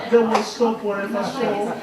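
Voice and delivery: amused laugh while saying it; giggling through it. Real, not acted. Amused about kids stopping.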